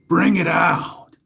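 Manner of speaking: slow, drawn-out whispered command. Acted. Whispering slowly to viewers as he unveils it.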